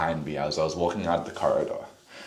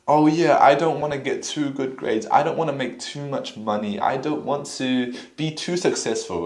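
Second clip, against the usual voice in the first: higher, sarcastic whine; mock whiny voice; 5 semitones higher than usual. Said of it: "that's what you sound like".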